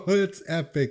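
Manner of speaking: high, loud and thrilled; laughing delight. Real, not acted. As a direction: blurt it out on the tail of a laugh. Cracking up at last meme.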